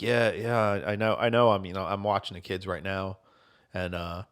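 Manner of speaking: quiet, low, slowed solemn fake; hushed grave tone. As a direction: murmur it like bad news. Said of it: "I'm like".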